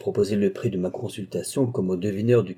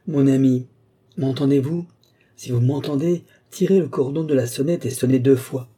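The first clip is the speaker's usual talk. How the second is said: louder, calling out through the house; ringing voice; 3 semitones higher, 4 dB louder than usual. Acted. Balsamo calls to Lorenza upstairs, loud and ringing. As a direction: project the call to a distant room. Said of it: "d'une voix éclatante".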